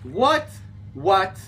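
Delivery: high, loud startled what; jolted in surprise. Real, not acted. Startled by glitch.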